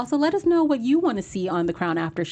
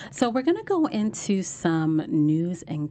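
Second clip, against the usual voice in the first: hushed, slow gossip whisper; news and gossip voice; slower than usual. Acted. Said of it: "That's my news and gossip voice".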